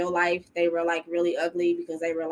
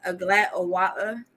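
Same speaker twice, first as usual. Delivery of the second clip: British accent. Shown as a demonstration. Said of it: "my British accent, retry".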